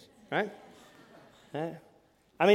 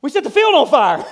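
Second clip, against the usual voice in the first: high, loud alarmed cry, getting louder; shocked alarm; 9 semitones higher, 13 dB louder than usual. Retold or imitated. Boy spotting the burning field, loud alarmed shout. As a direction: gasp it out as if the field just caught fire. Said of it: "And I'm like".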